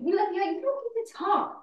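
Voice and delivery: bitter outburst. Acted. Daughter confronts mother at memorial.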